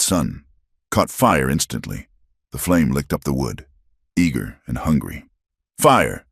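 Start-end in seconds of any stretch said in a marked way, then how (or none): 5.8-6.3 raised alarm shout. Acted. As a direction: warn everyone the cabin is burning. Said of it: "someone shouted".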